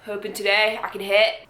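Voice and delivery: lightly voiced dude-bro swagger; frat boy. Shown as a demonstration. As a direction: say it like a cocky frat guy. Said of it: "I said that like a frat boy".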